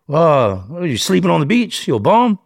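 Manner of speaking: high-pitched incredulous questioning; mocking detective. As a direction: imitate a detective poking holes in an alibi. Detective mocks his beach alibi.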